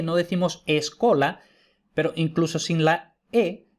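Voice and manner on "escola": escola with an E before the S; added initial E. Shown as a demonstration. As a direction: say escola the Spanish way, es-CO-la. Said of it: "si no metemos una E".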